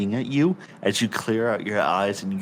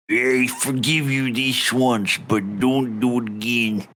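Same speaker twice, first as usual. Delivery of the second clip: put-on thick rustic accent with stretched vowels; accented local. Local asks a traveller about bandits, rustic accent. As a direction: play a folksy old-country local. Voices a non-player character.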